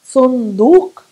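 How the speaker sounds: صندوق with a strong uvular q, said loud; Arabic qaf. Shown as a demonstration. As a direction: hit the q in صندوق from the throat. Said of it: "pronounce it from the back of the throat".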